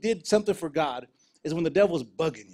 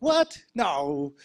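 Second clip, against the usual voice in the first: shocked disbelief. Retold or imitated. Told passport reported stolen.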